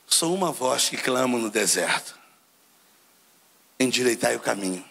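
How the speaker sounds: deep, slow prophet's declaration; John the Baptist. Retold or imitated. Preacher voices John telling the Levites who he is, deep and slow. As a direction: proclaim it low and slowly, like a voice from the desert. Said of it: "Aí ele fala assim".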